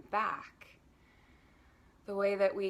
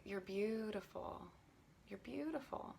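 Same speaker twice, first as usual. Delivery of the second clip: much softer, tender affirmation; quiet loving self-affirmation; kind inner voice; 2 semitones higher, 8 dB quieter than usual. Shown as a demonstration. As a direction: tell yourself gently you're beautiful. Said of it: "a kind and friendly inner tone".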